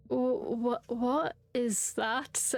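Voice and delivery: slow, stammering fright; mock frightened. Player voices dad spotting shadow in trees, frightened stammer. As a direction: draw it out in halting, acted fear. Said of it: "I say with my terrifying cat eyes".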